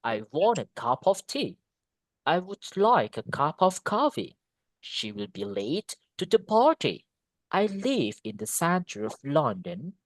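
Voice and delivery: measured rhythm stressing content words like "want", "like", "late", "London"; demonstrated intonation. Shown as a demonstration. Teacher recapping examples for students, measured content-word intonation. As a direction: lean on "cup", "coffee", "party", "center", link the rest. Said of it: "this is the intonation".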